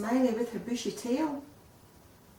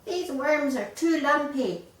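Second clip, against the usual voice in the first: higher, louder fussy whine; whining chick; 7 semitones higher, 6 dB louder than usual. A narrator's reading. Chick rejecting parents' worms, whining. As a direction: moan it like a picky eater. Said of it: "when he whined".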